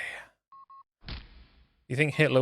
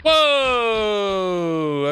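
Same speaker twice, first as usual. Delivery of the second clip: sharp high surprised cry; startled whoa; 9 semitones higher, 7 dB louder than usual. Real, not acted. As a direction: jump at a sudden scare. Sudden fright in game.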